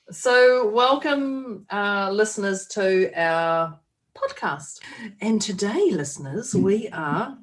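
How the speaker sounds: lightly put-on radio presenter; a hint of mock radio announcing. Host playing at radio presenter for the listeners, mild put-on voice. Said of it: "isn't that how you put your radio voice on".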